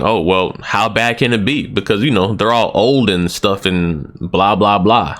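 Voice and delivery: high and mighty. Retold or imitated. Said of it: "gets all high and mighty saying".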